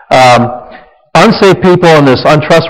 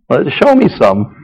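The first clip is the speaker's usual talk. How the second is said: sarcastic retort; 4 dB quieter than usual. Retold or imitated. Retort to a defensive spouse.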